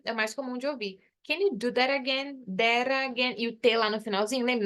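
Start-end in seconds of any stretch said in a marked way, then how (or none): 1.3-3.4 "that again" linked with a flapped T; T as R sound. Shown as a demonstration. Teacher models common American linking, R sound in "that again". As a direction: tap the end of "that" straight into "again". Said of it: "vai ficar com som de R".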